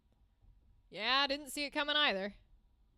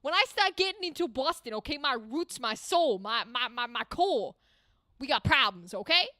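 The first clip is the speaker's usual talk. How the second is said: Boston accent. Real, not acted. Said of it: "You don't want this accent".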